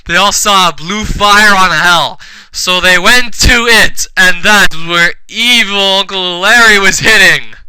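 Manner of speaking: loud, emphatic mock-dramatic reading; over-earnest storyteller; hammed-up story narration. A narrator's reading. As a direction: narrate a terrible fanfic with full conviction. Reads fanfic story aloud.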